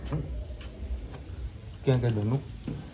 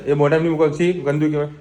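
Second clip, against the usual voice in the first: gentle scolding; 3 semitones higher, 5 dB louder than usual. Real, not acted.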